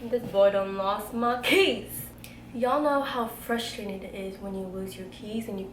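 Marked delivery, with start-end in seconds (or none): 0.0-2.0 exasperated. Retold or imitated. Telling friends how she snapped at him, exasperated. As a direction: act out your own annoyance at him. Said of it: "So I'm like".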